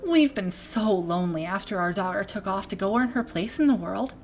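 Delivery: put-on game parent in a shaky-aimed Minnesota accent, drifting toward Irish; attempted Minnesota accent. Proud, worried parent talking about a circus daughter, attempted Minnesota accent. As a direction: try a Wisconsin-Minnesota accent and miss slightly. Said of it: "I was really trying to go for Wis-, Wisconsin, like, Minnesota accent".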